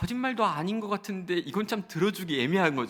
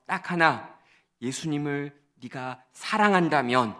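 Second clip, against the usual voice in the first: normal talking voice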